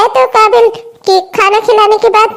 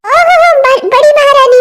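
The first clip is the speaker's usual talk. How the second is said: mocking, mildly raised welcome; sarcastic; 3 semitones higher than usual. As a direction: greet her with scornful false grandeur. Sarcastic welcome to the late daughter-in-law.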